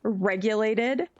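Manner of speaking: measured delivery, slowing on the last word; carefully controlled, drawing out the final word; regulated voice. Shown as a demonstration. Streamer promising chat to behave, in a regulated voice. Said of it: "try and keep my voice somewhat regulated".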